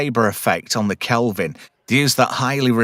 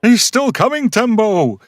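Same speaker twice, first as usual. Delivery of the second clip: panicked character; 9 semitones higher, 4 dB louder than usual. Acted. Voicing fleeing character in recap.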